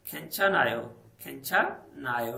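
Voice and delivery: खेंचन आयो linked without an h, slowing on the repeat; खेंचन आयो said as khen-chan-a-yo; correct Korean reading. Shown as a demonstration. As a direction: model खेंचन आयो carefully. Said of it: "खेंचन हायो नहीं से पढ़ना".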